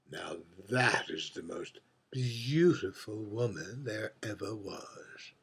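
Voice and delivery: hushed, reverent whisper; awed whisper. Acted. The drag queen whispers to the bartender in awe of Ava Gardner. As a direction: breathe it like a secret devotion.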